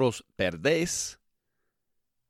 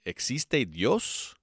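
slow question; 3 semitones higher, slower than usual. Shown as a demonstration. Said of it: "This is a question, right?".

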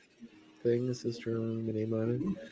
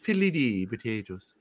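mock Irish accent; 6 dB quieter, slower than usual. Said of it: "just in an Irish accent".

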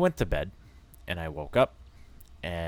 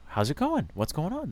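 mock girly greeting; 9 semitones higher than usual. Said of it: "they're like".

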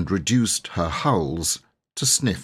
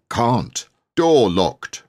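booming voice; 4 semitones higher, 5 dB louder, much slower than usual. Acted. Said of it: "the same voice replied".

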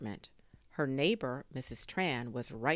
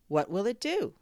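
curious neighbour; 7 semitones higher, 6 dB louder than usual. A narrator's reading. Maria asks about the drone.

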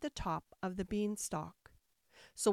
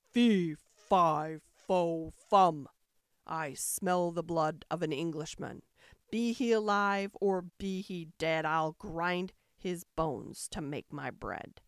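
dim booming ogre; 4 semitones lower, slower than usual. Acted. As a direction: boom each word like a giant. Ogre's famous chant.

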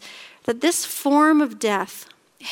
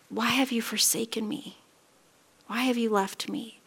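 hushed, softer retold lament; forsaken plea; 7 dB quieter than usual. Dying Jesus asking his Father, quiet forsaken plea. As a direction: let the question fall quiet.

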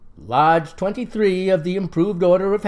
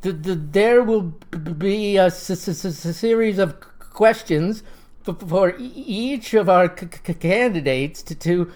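stutter. Acted. Lodge president opening the debate, stuttering. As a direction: stammer on the first sounds. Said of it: "he has a distinct stutter".

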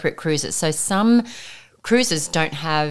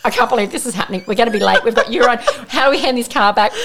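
mock exasperated rant, building higher and louder; retold frantic rant; 6 semitones higher, 4 dB louder, faster than usual. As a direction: imitate a stressed-out driver venting. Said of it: "punching the steering wheel and going".

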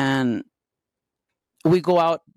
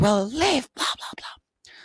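dismissive mock retort; 7 semitones higher, slower than usual. Fight with drunk boyfriend.

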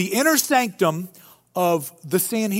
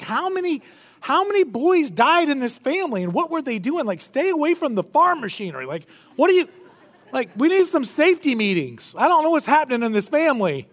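higher-pitched comic bafflement; mock incredulous; 5 semitones higher than usual. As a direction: react as if this family is absurd. Mock reaction to absurd family story.

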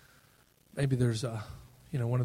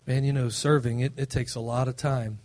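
grudging churchgoer. Retold or imitated. Pastor mimics a stagnant church member, mildly grumbling. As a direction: sigh it out like serving is a chore. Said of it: "This is what this sounds like".

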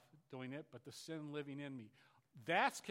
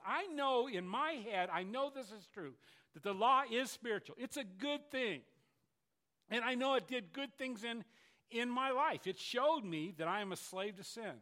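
impassioned confession; 6 semitones higher, 7 dB louder than usual. Acted. Preacher voicing Paul's confession, loud impassioned plea. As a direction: cry out the struggle from the heart.

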